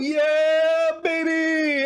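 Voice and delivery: put-on very high, loud "Yeah, baby!" yell; over-the-top meme yell; Moist Critical hype. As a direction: scream it like a streamer losing it. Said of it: "Moist Critical saying".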